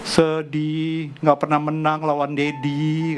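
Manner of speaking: mildly voiced sad child, slow and drawn out; mock-sad drawl of a beaten child; tearful child. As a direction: imitate a son's slow, sorrowful complaint. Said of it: "dia menangis, benar-benar terseduh-seduh".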